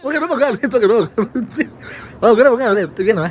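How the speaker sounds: placating. Real, not acted. Placating the annoyed partner.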